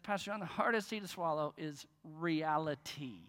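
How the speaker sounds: a bolder second take of the punchline; punchier retelling. Shown as a demonstration. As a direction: sell the joke this time, bigger. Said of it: "let me try it again".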